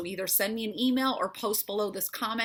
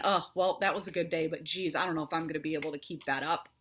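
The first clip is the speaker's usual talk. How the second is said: trailing off into a low, fast, doubtful mumble; doubtful self-talk; 5 semitones lower, faster than usual. Retold or imitated. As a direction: speaker mimics the listener's doubting inner voice, deflated. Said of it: "Shut that".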